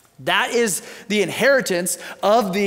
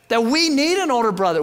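emphatic; 4 semitones higher, faster than usual. Real, not acted. Preacher driving the point home.

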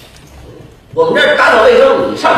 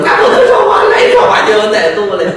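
shouting while fleeing. Acted. Vendor shouting the lesson while pushing his cart away. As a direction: yell it as you run off. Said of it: "一边跑一边嚷嚷".

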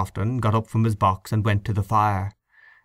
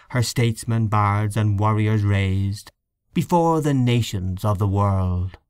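solemn recited verse; poem recitation. Acted. Hynes recites his poem to the room, solemn recitation. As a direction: recite it like a mourning elegy.

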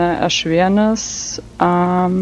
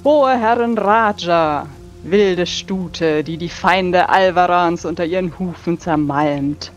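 hammy stage actor; 2 semitones higher than usual. Acted. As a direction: proclaim it with big theatrical sweep. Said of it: "sehr tulamidisch, theatralisch".

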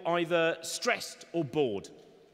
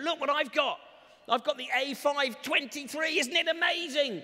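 mock excitement; 6 semitones higher than usual. Excited buyer showing new gadget.

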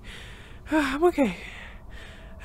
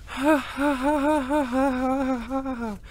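giddy laughter; slower than usual. Acted. Giddy relief after rescue.

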